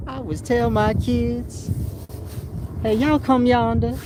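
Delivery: high, slow mocking quote; lightly hammed-up backwoods voice; mock old-time drawl. Mocking the commenter's grammar, high and slow. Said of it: "It just sound like a slave".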